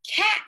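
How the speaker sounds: cat said slowly and high, sound by sound; teacher modelling "Cat." for segmenting; drawn-out word demo. Shown as a demonstration. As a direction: stretch out "Cat." while sliding the arm down. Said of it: "Do this".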